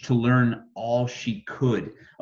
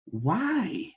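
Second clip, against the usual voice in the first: simple question; 7 semitones higher, 3 dB quieter than usual. Acted. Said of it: "she simply asked".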